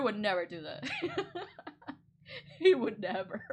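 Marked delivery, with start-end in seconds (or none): 0.9-1.9 a very high giggle that lifts at the end; high rising laugh. Real, not acted. Vlogger still laughing at the cartoon name, high giggle. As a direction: giggle helplessly.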